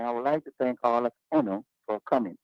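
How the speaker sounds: Jamaican patois with "Uno" for you; Jamaican patois mix. Shown as a demonstration. To the audience, thanking them in Jamaican patois. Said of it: "the English is mixed up with the patois".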